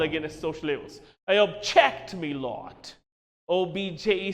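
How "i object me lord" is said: a lawyer's quick objection, object rising; lawyer in court. Retold or imitated. Lawyer objecting to the judge in court, a clipped call. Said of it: "as you might have seen the lawyers doing in the court of law".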